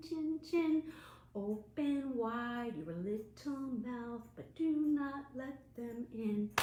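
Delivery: put-on sing-song action rhyme for children; finger rhyme. Librarian leads children in a finger-play rhyme, sing-song. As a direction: lead the kids through the motions.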